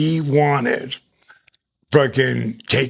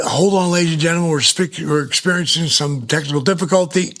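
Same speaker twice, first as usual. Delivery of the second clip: Jim Ross; 5 semitones higher than usual. Retold or imitated. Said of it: "Jim Ross is gonna say something like".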